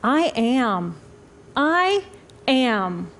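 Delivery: slow, spaced words, each set apart; little inner voice. Acted. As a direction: declare it slowly, with weight. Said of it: "that little voice that says to me".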